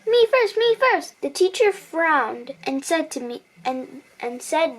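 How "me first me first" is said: higher pushy cry of me first; demanding to go first, raised pitch; child shouting over the class to go first; mock shout. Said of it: "I shouted".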